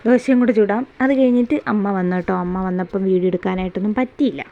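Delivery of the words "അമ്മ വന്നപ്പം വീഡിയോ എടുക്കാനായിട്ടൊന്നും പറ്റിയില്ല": ordinary delivery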